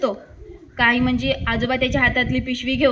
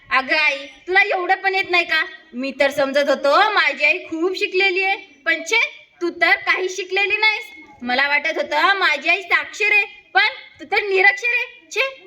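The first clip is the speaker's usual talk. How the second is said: put-on scornful boy; 2 semitones higher than usual. A scoffing child, voice climbing on छे.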